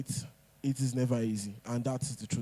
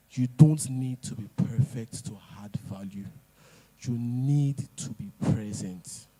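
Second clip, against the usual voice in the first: whisper. Acted. Speaker repeats key message.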